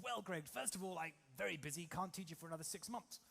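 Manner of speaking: lightly voiced old brigadier; a hint of a busy old army officer. Flying instructor putting off a would-be pupil, light brigadier voice. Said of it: "He speaks like that".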